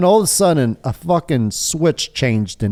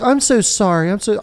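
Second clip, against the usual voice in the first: apologetic waitress; 7 semitones higher than usual. Retold or imitated. Waitress apologising in retold scene.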